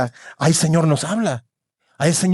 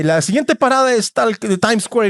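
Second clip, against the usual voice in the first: subway announcer woman; 3 semitones higher than usual. Retold or imitated. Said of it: "La voz de una mujer".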